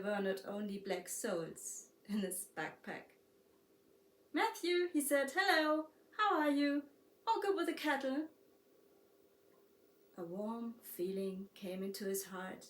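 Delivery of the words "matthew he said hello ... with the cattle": glad greeting. A narrator's reading. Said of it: "Matthew's glad voice on the phone".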